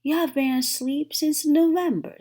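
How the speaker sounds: high, loud answer; exasperated. A narrator's reading. Frog telling Toad how long he slept, high and loud. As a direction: tell him plainly and loudly.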